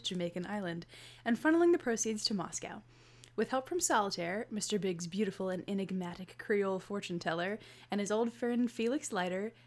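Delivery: measured book-blurb read; synopsis read. Acted. Co-host reading a Bond synopsis to listeners, blurb narration. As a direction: read it out like a back-cover summary.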